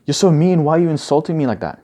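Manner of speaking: sulky protest at being mocked; hurt whine. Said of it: "You'd be like".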